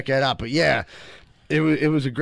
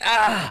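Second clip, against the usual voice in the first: mock strained cry; 5 semitones higher than usual. Acting out the midair drop, mock cry. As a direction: let out a comic cry of release.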